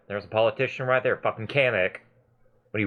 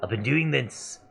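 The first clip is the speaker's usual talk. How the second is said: Scrap's voice. Acted. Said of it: "he talks like this".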